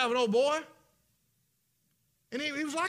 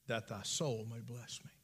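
low, breathless whisper; whispered lie; 8 semitones lower, 7 dB quieter than usual. Acted. Jacob whispers his plea for the blessing. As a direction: whisper the request like a secret.

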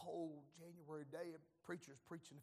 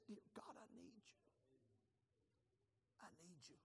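much softer, hushed plea; quiet prayer; 14 dB quieter than usual. Retold or imitated. Alone in the MRI, quietly begging God, hushed prayer. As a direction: pray under your breath, small and scared.

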